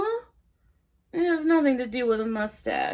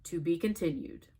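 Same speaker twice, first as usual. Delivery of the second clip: low, soft trailer voice; deep announcer; 11 semitones lower, 12 dB quieter than usual. Acted. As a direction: intone it like a trailer.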